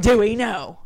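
firm parent scolding the dog; stern mom voice at the dog; parental voice. Real, not acted. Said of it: "Use my parental voice".

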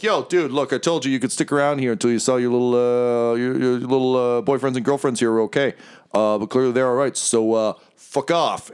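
quick, chummy fiend voice turning dismissive; brash fiend. Acted. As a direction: play a breezy demon dismissing a hanger-on. Game master plays fiend Bell.

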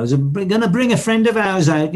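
stage announcement in a mock Birmingham accent; Robert. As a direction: put on a light Brummie lilt, as if announcing a guest. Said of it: "You know, that Birmingham accent".

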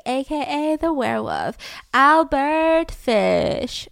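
drawn-out announcer reveal, very slow name; radio host voice. Shown as a demonstration. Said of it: "I'm like".

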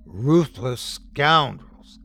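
slow words through laughter; gurgling laugh. A narrator's reading. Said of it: "Kiefer gurgled".

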